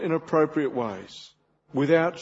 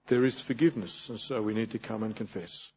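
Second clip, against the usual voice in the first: normal talking voice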